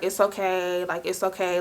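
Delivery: soft, hushed comforting words; calm her down gently, quietly; soothing reassurance. Retold or imitated. Friend hugging her as she cries, soft and hushed.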